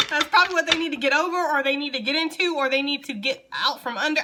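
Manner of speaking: high, loud, laughter carried into the words; amused, just after laughing. Real, not acted. Card reader reacting to a relationship card, amused and high-pitched. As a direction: talk on through rising amusement.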